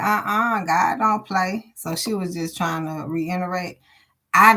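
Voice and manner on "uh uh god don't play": firm correction. Retold or imitated. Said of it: "She said".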